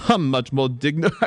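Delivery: British line collapsing into laughter; British accent cracking up. Acted. Actress losing her British line, cracking up. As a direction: start grandly British, burst out laughing. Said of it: "my accent is superb".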